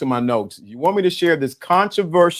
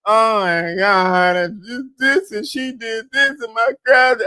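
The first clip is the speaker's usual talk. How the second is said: high mock-tearful whine; whining and crying; 6 semitones higher, slower than usual. Dude complaining about what she did, mock whining. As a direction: imitate a man griping through tears. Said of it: "This dude was whining and crying".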